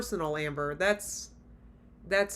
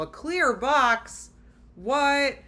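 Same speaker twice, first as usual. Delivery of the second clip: slow, louder disbelief; incredulous outrage; 3 dB louder, slower than usual. Real, not acted. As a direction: stretch it out in scandalised disbelief. Mocking outrage at the proposal.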